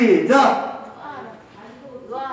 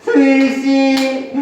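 drawn-out, slightly raised call; plaintive plea; 3 semitones higher, slower than usual. Shown as a demonstration. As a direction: plead slowly with the name. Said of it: "애절하게 불면". (길게 늘여 애절하게)

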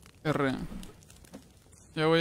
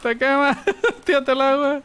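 higher, louder urgent warning; excited shout; 9 semitones higher, 4 dB louder than usual. Real, not acted. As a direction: yell it in a panic, laughing. Panicked warning in game.

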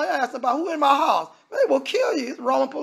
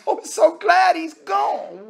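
higher, slow, gleeful mock celebration; gleeful angels; 7 semitones higher, slower than usual. Preacher voicing angels rejoicing Satan is gone, gleeful and high. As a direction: crow like heaven glad to be rid of him.

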